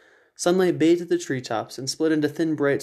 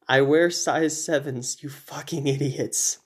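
slow, fading last words; mild dying rasp; a hint of a dying hunter; slower than usual. Dying hunter's final words to them, slow and fading. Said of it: "spoke his final words".

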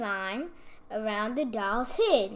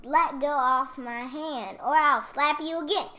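louder, heated fairy demand; fairy's raised-voice warning; angry threat; 3 semitones higher, 7 dB louder than usual. A narrator's reading. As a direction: threaten the doll, forcefully and louder. Stuck fairy threatens the doll.

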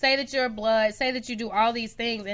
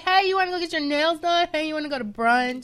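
put-on higher, bright girly invite; friendly invite; 5 semitones higher than usual. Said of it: "I'm like".

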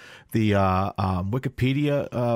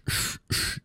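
hissing sh sound; 5 dB quieter than usual. Shown as a demonstration. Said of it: "every S is sh".

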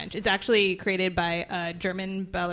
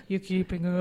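put-on slightly hoarse old-lady voice; lightly put-on hoarse old woman. Shown as a demonstration. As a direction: rasp it a little, like an old lady. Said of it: "a little more hoarse in this week's rendition".

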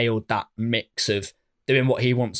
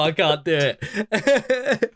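high, drawn-out words through real laughter; helpless laughter; 6 semitones higher, much slower than usual. Real, not acted. Podcast host giving up on an accent, laughing helplessly. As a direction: crack up while giving up. Cracking up over failed accent.

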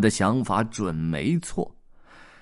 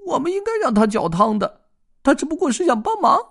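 much higher, fast squirrel voice; sniffling squirrel; 7 dB louder, faster than usual. Acted. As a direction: sniffle out a regretful admission. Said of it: "松鼠吸了吸鼻子说".

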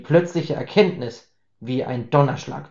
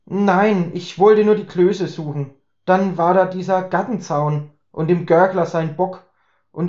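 put-on drunken rambling; 4 semitones higher, 3 dB louder than usual. Drunk Herbert rambling explanation.

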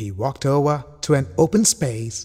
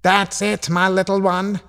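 higher, smiling uncle; smiling reassurance; 6 semitones higher than usual. A narrator's reading. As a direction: reassure a little one with a smile.

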